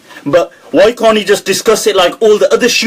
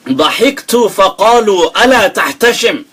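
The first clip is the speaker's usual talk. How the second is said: reciting Arabic poetry; 2 semitones higher, faster than usual. Shown as a demonstration. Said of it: "he's in Arabic".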